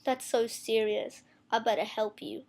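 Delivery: slow, lightly mocked line reading; imitated bad actor. Mocking a guy's acting in one scene, slow mock seriousness. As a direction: drag it out like an unconvincing actor. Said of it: "this guy goes".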